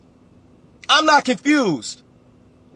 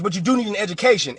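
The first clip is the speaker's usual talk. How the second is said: "do" pressed, quick delivery; stress on do; 3 semitones lower, 3 dB quieter, faster than usual. Shown as a demonstration. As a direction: punch "do" in "you do need". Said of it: "you do not need college".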